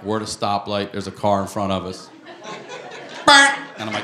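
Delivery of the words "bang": short, sudden car horn imitation; horn blip. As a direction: honk one abrupt blip.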